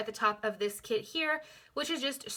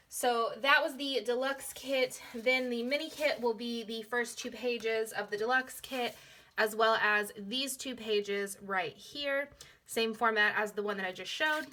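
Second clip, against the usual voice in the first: hoarse, fading voice; raspy whisper of a tired voice; losing voice. Real, not acted. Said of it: "I'm losing my voice".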